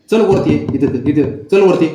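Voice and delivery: loud, high commands to a pet; calling out. Real, not acted. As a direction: urge a pet to climb up.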